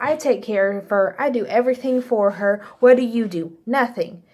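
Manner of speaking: lightly voiced stern sergeant, pitch lifted; a hint of sergeant dressing-down; sergeant mode. Ex-military husband confronts his wife's suitor, mild sergeant mode. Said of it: "My husband gets in sergeant mode".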